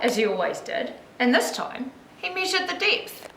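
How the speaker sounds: put-on lilting read-aloud for young children; story narration. A narrator's reading. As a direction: tell it like a picture book, with lifted key words.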